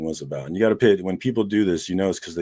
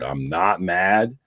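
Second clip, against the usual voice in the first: slow and calm; much slower than usual. Real, not acted. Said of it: "I wanted him to hear my voice".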